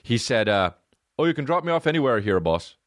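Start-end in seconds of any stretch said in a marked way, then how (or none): 1.2-2.8 quick imitated Irish accent. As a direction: toss it off fast in an Irish accent. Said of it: "in his fucked up Irish accent".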